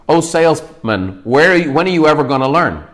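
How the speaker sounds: imitating an incredulous scolding. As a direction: quote it in mild disbelief, stretching the opening. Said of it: "says it in kind of an incredulous manner".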